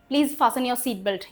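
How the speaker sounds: very slow, every word spelled out by sound; slow example read. Shown as a demonstration. Teacher reading an airline line to students, slow and clear. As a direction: read it out slowly for the class to copy. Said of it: "teacher reads example sentence aloud".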